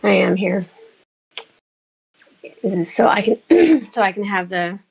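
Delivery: chipmunk voice. Real, not acted. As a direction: talk through a chipmunk filter. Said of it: "the chipmunk voice too".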